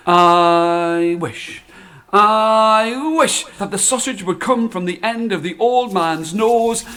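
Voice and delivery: firm final spell; spoken wish. Acted. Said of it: "And she said".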